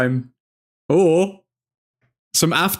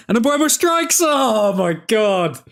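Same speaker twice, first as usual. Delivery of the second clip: excited yell; 8 semitones higher, slower than usual. Real, not acted. Fan watching a striker's shot fly wide, shrieking excitedly. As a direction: scream at the near miss. Near miss during live watchalong.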